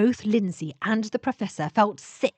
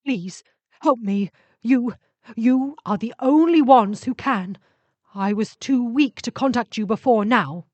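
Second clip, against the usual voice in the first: pleading ship voice; 3 semitones higher, 6 dB louder than usual. Acted. Dying ship spirit begs the travellers, pleading. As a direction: beg for help, lightly voiced.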